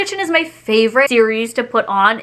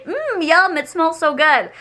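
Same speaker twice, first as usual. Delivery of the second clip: mock yum; 5 semitones higher, slower than usual. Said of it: "I didn't say".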